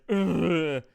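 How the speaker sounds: imitated monster groan; a monster's wordless "ugh". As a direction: groan at your own reflection, mock monster. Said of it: "and he's like".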